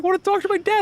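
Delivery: very high, mock tearful kid whine; tearful nephew. Uncle imitating his teased nephew near tears, high-pitched mock upset. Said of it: "starting to get in tears".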